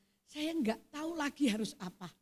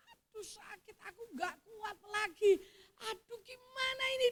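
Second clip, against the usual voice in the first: mock wail, pitched up but held back in volume; retold pained cry; 3 semitones higher, 3 dB quieter than usual. Patient crying out in pain over the phone, mild mock wail. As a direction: imitate a patient moaning in pain. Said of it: "dia teriak".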